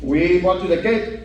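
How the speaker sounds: lightly voiced menacing tough guy; a hint of a threatening gangster; hostile Latino. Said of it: "the hostile Latino".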